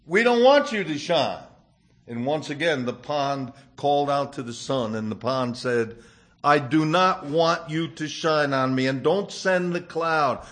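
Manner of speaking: put-on gentle storytelling voice, reading to children; story narration. A narrator's reading. Preacher tells a children's fable to the congregation, gentle storytelling.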